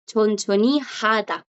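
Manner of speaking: slow chonchoni hada, audible H opening hada; chonchoni hada slowly, breathing the H of hada; J sounded in hada. Shown as a demonstration. Teacher models the verb phrase, hada with sounded J. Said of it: "aquí sí suena".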